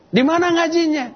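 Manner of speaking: put-on startled mother asking where her child studies, high and amazed; surprised parent. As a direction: ask it high, astonished at the change. Surprised parent questions changed child.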